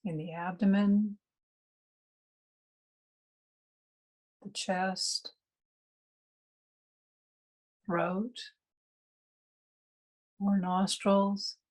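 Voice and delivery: unhurried meditation guide with long pauses; calm meditation instruction, spaciously phrased; guided meditation. Real, not acted. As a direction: guide listeners gently inward, pausing between phrases.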